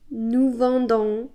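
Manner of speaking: Nous vendons said slowly and clearly; teacher-paced nous vendons; careful French drill; slow model form. Shown as a demonstration. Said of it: "new form".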